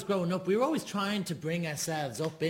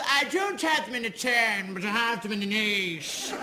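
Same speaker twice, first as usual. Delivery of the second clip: put-on posh accent; 3 semitones higher than usual. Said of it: "a nicer accent".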